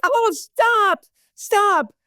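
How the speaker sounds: high, whiny mock protest; imitating whiny daughter. Daughter protesting to her mother, high and whiny. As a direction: squeak it out like an embarrassed kid. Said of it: "She's like".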